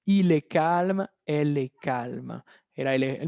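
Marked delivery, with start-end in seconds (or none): 0.0-1.1 "calme" slowly, ending on M; "calme" drawn out, final E silent; identical ending. Shown as a demonstration. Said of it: "se queda idéntica en femenino". 1.2-2.4 "calme" lower, ending on M; identical ending. Shown as a demonstration. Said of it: "se queda idéntica en femenino".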